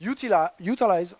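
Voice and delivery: English buzzwords in a French accent. Real, not acted. French presenter reading English jargon in a French accent. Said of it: "excusez mon accent".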